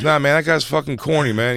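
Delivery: lightly voiced dismissive seller; street tout voice. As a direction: wave him off like a hustler. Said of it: "he goes".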